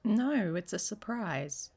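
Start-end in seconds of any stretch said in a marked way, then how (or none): 0.0-0.5 higher, louder playful no. Acted. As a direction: refuse with a teasing shout. Teasing refusal outdoors.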